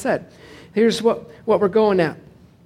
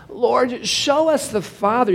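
whiny disciple; 4 semitones higher, slower than usual. Acted. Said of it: "You can almost hear some whine".

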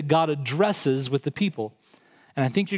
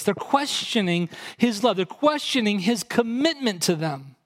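ordinary delivery

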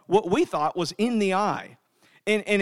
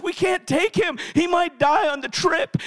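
frantic wife; 7 semitones higher than usual. Acted. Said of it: "franticness of a parent".

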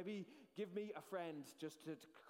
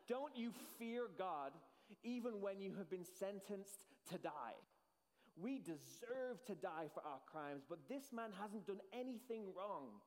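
slow, earnest rebuke; protesting; slower than usual. Acted. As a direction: plead slowly against the mockery. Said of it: "he protested".

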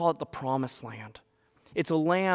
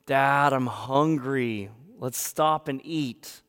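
put-on complaining kid; slower than usual. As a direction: drag the words out at Dad. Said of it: "all of a sudden the complaining happens".

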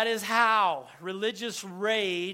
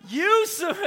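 sudden loud, high mock outburst; upset retort; 8 semitones higher, 8 dB louder than usual. Preacher acting the crowd insulting Jesus, upset shout. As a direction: burst out with an accusing shout. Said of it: "They're talking to Jesus like this".

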